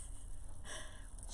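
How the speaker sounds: stifled breathy laugh; hushed little laugh; whispered giggle. Real, not acted. Laughing while neighbor walks by.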